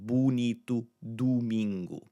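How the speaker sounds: "Bonito, domingo" with boo and doo. Shown as a demonstration. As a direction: clear oo opening "Bonito" and "domingo". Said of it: "that oo sound again".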